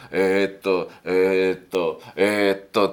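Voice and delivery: drawn-out, repeated mock umming; dithering, looking around. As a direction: stall indecisively while eyeing everyone up. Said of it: "キョロキョロすること".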